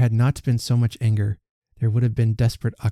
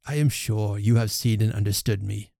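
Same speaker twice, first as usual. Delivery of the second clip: insinuating. Acted. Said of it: "in an accent meant to be insinuating".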